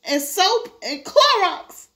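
high-pitched tearful explanation; whimpering. Acted. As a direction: whimper the accusation out to the policeman. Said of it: "He was whimpering so".

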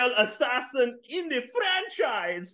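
shouted mocking impression. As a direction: yell the boast mockingly. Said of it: "You sound nothing like that".

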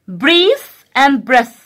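teacher contrasting two words for the class; slow contrast. Shown as a demonstration. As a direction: Breathe and breath said very slowly. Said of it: "contrasting words, slow".

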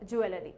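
low, even জুয়েলারি with the middle "la" kept; Bengali-style pronunciation. Shown as a demonstration. Teacher repeats the common Bengali habit, জুয়েলারি as joo-e-la-ri. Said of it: "আমরা উচ্চারণ করি এভাবে".

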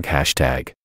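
soft echoed "hashtag" trailing away. A narrator's reading. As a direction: whisper "hashtag" like an echo. Echo after each hashtag.

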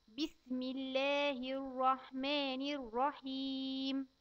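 put-on slow, careful recitation for a child to repeat. Shown as a demonstration. Teacher reciting slowly for a child to repeat. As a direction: spell out each word slowly for the child. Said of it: "قول تاني ورايا".

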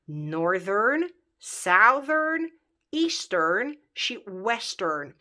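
"northern, southern, eastern, western" drawn out slowly, word by word; careful model pronunciation. Shown as a demonstration. Teacher modelling the adjectives for learners, slow careful pronunciation. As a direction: stretch each word with a clear "earn" ending. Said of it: "Și vei spune".

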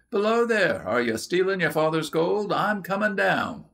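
high, loud call down a mine shaft. A narrator's reading. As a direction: shout down the shaft at the girls. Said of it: "a voice called out".

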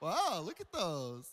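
soft, drawn-out wows swooping up high; gushing admirers. Retold or imitated. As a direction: marvel in hushed, hammed-up awe. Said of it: "people can look at you and say".

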